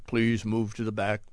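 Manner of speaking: a hint of the airport tram's recorded voice; robotic announcer voice. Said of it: "that robotic voice in the Atlanta air terminal".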